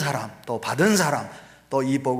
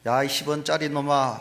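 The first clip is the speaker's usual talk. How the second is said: drawn-out, mildly raised cursing call; retold full-strength yell. Boy cursing his friend at the mountain, retold yell. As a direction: holler a curse, half-strength, as retold. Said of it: "있는 힘을 다해서".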